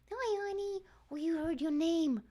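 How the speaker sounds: high cooing voice for the cat; sweet pet talk. Real, not acted. Greeting the cat.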